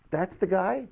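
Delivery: high-pitched disbelief, retold; incredulous question. Son sees magazine picture, incredulous question.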